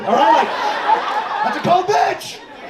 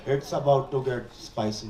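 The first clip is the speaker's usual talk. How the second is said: much lower and softer, deadpan; deadpan translation; 8 semitones lower, 9 dB quieter than usual. Retold or imitated. Translating mom's threat for the audience, deadpan and quiet. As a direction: drop it low and quiet as a calm threat. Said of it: "Translated that".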